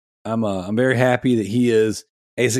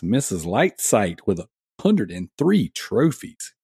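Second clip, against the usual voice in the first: talking through hiccups; hiccuping mid-sentence; 3 semitones lower, slower than usual. Real, not acted. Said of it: "Got the hiccups".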